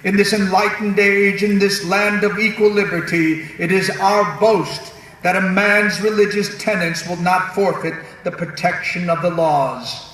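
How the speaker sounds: a hint of a founding father speech. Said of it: "that's my founding father's voice".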